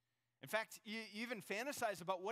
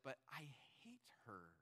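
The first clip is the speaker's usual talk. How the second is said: whispered, lower, far softer; muttered whisper; 4 semitones lower, 10 dB quieter than usual. Retold or imitated. Woman confessing her hatred of a coworker, whispered. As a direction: breathe the confession under your breath. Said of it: "just muttering under your breath".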